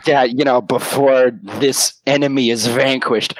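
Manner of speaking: slow, deliberate mock-heroic vow; retold determination. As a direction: space the words out like a solemn vow. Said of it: "the fire was just getting stoked".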